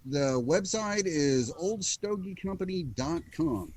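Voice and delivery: slow announcer read; radio voice. Shown as a demonstration. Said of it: "I'm doing my best radio voice".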